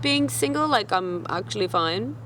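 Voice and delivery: a touch of offended sass; putting the heartbroken date in his place; offended retort. Retold or imitated. Mildly offended comeback to the crying date. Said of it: "I was literally so offended".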